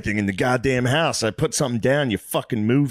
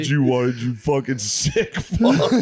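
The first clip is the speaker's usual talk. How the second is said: laughing imitation; 3 semitones higher, slower than usual. Friend re-imitates drugged patient, laughing.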